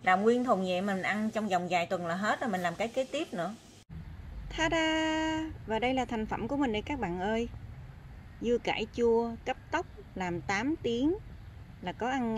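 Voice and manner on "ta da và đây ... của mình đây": excited reveal. Real, not acted. Proudly unveils the finished pickles.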